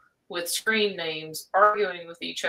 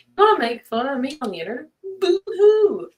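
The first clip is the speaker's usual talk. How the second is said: fast taunt into high fake sob; mock the haters with a whiny boo-hoo; mocking crybaby; 7 semitones higher, 5 dB louder, faster than usual.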